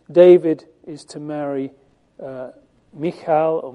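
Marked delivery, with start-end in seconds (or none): 2.9-3.6 Michal said as "mee-KHAL"; alternative pronunciation. Shown as a demonstration. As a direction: say Michal with the stress on the second syllable. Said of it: "How shall we pronounce that?".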